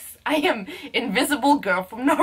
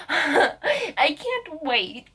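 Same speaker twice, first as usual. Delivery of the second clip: very drawn-out, excited words; giddy anticipation; 3 semitones higher, much slower than usual. Retold or imitated. Vlogger replying to the caller, giddy anticipation. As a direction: stretch it out with giddy eagerness.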